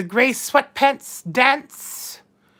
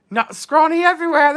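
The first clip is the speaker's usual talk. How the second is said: laughing; 3 semitones higher, 3 dB louder, faster than usual. Real, not acted. Teasing chat, repeats line.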